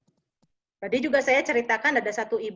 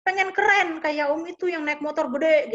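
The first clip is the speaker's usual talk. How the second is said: lightly voiced begging kid, higher at first; mock whining child; 4 semitones higher than usual. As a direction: plead like a kid, half-hearted wail. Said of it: "Anak ini meraung-raung minta moge".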